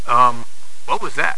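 professional test pilot voice. Retold or imitated. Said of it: "In my best professional engineering test pilot voice".

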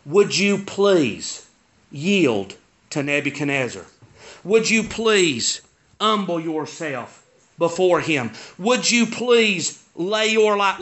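slow, drawn-out plea; lightly acted pleading; pleading prophet. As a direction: plead with measured, heavy pauses. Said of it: "he's pleading with them".

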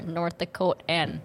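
slow North Dakotan long O; North Dakotan accent. Retold or imitated. Teasing the host's vowels, slow North Dakotan accent. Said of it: "that's North Dakotan right there".

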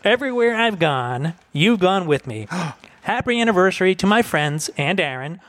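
light impersonation of a friend's toast; Michelle Stiles. Acted. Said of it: "I'll do my best Michelle impersonation".

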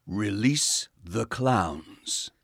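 very slow, badly faked Dalek voice; bad Dalek impression. Operator reluctantly trying the catchphrase, poor Dalek voice. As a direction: drag out each word in a feeble Dalek attempt. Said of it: "in your Dalek voice".

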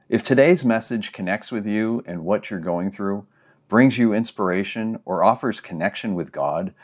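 measured, clearly projected welcome read; scripted podcast host welcome; podcast introduction. Acted. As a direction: introduce a sermon podcast to listeners.

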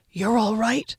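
hoarse weak whisper; creaky whisper. Acted. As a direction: rasp it out, barely voiced. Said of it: "he whispered hoarsely".

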